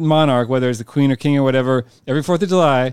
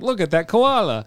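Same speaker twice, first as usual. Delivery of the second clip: slow, higher Australian accent; 5 semitones higher, slower than usual. Shown as a demonstration. Comedian showing how context words sell it, slow Australian accent. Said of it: "if I'm trying an Australian accent".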